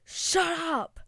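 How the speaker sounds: mildly exasperated retort; mock exasperation. Telling off the screaming player.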